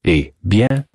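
put-on French-accented detective. Detective responds to the lady, French-accented. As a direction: give it a French lilt.

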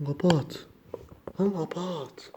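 hushed panicked pleading; scared pleading. Real, not acted. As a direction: beg to shut it off, voice tight with fear. Begging to hang up in fear.

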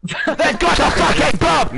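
high, drawn-out mock announcer yell; slow, high-pitched jeering shout; mocking scream. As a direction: imitate a screaming announcer, angrily. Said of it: "screaming in our fucking ears".

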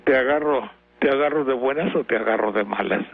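imitating a flirty husky voice; imitated husky voice. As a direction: lightly put on a sultry, hoarse come-on. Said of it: "cuando dice con voz ronca".

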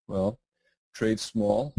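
usual speaking voice

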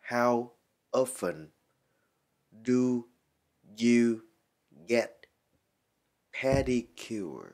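"How often do you get pedicure" with a pause after each word; slow teaching model of "pedicure" sentence. Shown as a demonstration. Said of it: "Nguyên câu này đọc lại là".

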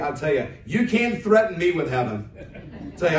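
laughing. Real, not acted. Laughs while preaching about heaven.

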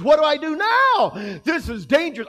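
Peter's anxious question. Retold or imitated. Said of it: "Peter pondered his options".

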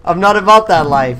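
loud, high defiant holler; defiant yell. Pretend. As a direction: holler it at the approaching attackers. Yelling defiantly as attackers approach in game.

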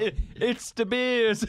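drawn-out mock American accent, with laughter; bad American accent. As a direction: imitate a failed American audition, stretched out. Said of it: "had to do an American accent".

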